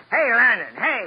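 loud wake-up call. Acted. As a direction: holler to get a reaction from her. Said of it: "I'll show you how to get a reaction".

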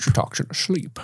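soft, voiceless imitated confession; confiding whisper. Dad confiding to his son about Elsa, mock whisper. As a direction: whisper it like an embarrassing secret. Echoed confession in retold scene.

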